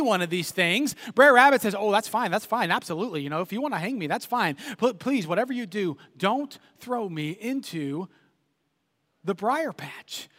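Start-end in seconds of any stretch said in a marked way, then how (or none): 1.7-10.3 softer, slowing to a sly plea at the end. Retold or imitated. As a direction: sweet-talk them, drop to a hush. Rabbit's sly feigned begging.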